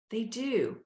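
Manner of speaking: whispered aside. Real, not acted. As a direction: breathe it almost silently. Emphatic aside.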